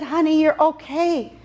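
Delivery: slow, calm Honey; reassuring. Retold or imitated. Assistant Nancy soothing her friend, slow and calm. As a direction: settle her down slowly. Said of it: "She said".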